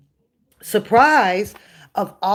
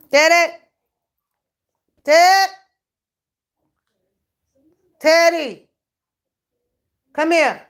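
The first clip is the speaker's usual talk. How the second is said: loud high call across the house; 7 semitones higher, 4 dB louder, slower than usual. Real, not acted. Calling her dog Ted loudly across the house. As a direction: call the dog from another room.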